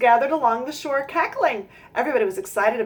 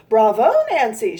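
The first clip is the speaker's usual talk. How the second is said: shouting; 6 dB louder than usual. Acted. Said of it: "shouted the goslings".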